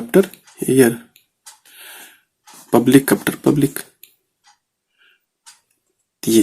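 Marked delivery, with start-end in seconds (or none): 2.7-3.8 very slow, each word apart; dictating an example phrase to students; slow dictation. Shown as a demonstration. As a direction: lay it out slowly for the class. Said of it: "dictating an example phrase".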